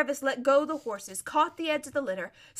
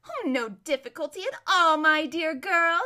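raised, loud and careless; breezy reassurance; 5 semitones higher, 7 dB louder than usual. Acted. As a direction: wave the problem away grandly. Lady airily offers help.

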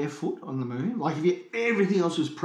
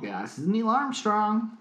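put-on slow, higher-pitched, shaky American accent; badly faked American astronaut on the phone; Neil Armstrong; 7 semitones higher than usual. Astronaut answers a podcast's call, wobbly American accent. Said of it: "trouble with my American accent".

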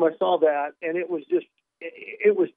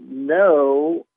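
weird no; 5 dB louder than usual. Retold or imitated. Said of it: "in a weird way with a pause".

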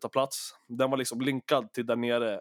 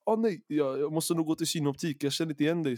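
imitated friend; 4 semitones higher than usual. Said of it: "så han bara".

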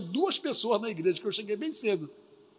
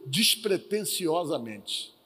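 normal talking voice

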